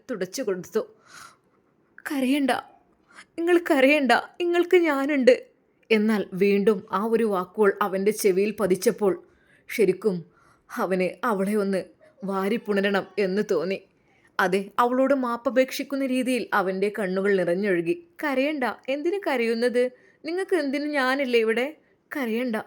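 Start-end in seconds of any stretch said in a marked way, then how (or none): 2.0-5.3 comforting wife. Acted. Wife comforting crying husband. 18.2-22.5 tender comfort. Acted. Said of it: "സ്നേഹത്തോടെ അവൾ".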